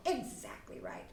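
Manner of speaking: soft, hushed praise; praising parent. Shown as a demonstration. Parent praising child after role play, soft and proud. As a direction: gently tell the child he did well. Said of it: "you're just gonna go".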